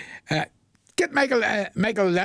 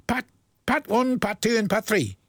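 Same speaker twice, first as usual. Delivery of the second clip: slow and careful; 3 semitones higher than usual. Shown as a demonstration. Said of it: "Try and say that fast".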